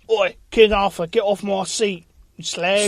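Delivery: a shouted Cockney heckle, drawn out; mock Cockney heckle. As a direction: yell it like a London pub bloke. Mock Cockney heckle at King Arthur.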